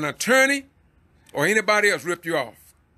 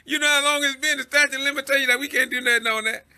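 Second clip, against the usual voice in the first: quoting the judge; 7 semitones higher than usual. Retold or imitated. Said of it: "the judge told him, say".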